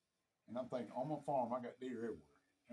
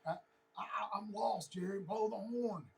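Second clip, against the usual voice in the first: imitated walkie-talkie plea; 6 semitones higher, much slower than usual. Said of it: "you hear way in the walkie-talkie".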